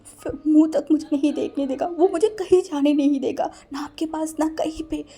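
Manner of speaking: crying while speaking. Acted. Wing tearfully explaining her fear of mother to Wang, crying. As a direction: blurt it out through tears, rising to a wail. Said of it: "विंग रोते रोते बोला".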